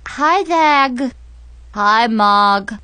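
talking through a snorkel with a lisp; muffled through a snorkel mask, lisping. Acted. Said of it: "snorkel thingy made my voice ... just like Darth Vader's, but with a really wicked lisp".

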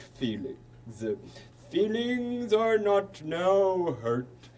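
slow, grand royal proclamation; formal royal speech. Acted. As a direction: proclaim it like a pompous king.

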